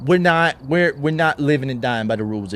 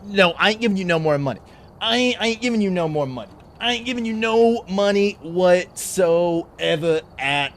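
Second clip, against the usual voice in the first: indignant refusal; 6 semitones higher than usual. Acted. Refusing to pay lawyer.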